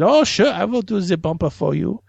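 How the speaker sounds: hammed-up German accent; a singer. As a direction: imitate an agreeable German singer. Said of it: "my only German accent I can do".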